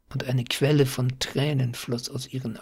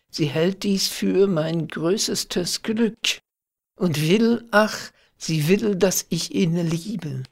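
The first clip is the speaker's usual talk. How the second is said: higher, pleading confession; distressed lament; 5 semitones higher, 3 dB louder than usual. A narrator's reading. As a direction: pour out the girl's distress, pitch raised. Girl laments her forced betrothal.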